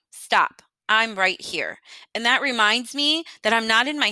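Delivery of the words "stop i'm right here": a firm spoken Stop then plain; said out loud. Shown as a demonstration. Host interrupting anxious thoughts, firmly out loud. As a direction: say it aloud to snap out of it. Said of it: "I'll even say it out loud".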